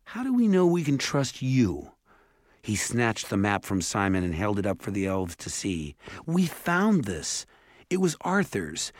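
put-on boy defiantly demanding answers from the elves. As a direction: confront them with the evidence. Jared confronting the elves.

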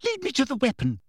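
high-pitched, triumphant order; exultant. A narrator's reading. Umbridge straightening up victorious, exultant command. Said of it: "looking exultant".

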